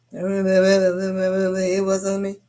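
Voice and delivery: milk the denial, slow and mocking; drawn-out denial. Teen boy repeating to his cousin, a slow drawn-out denial. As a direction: stretch every word very slowly.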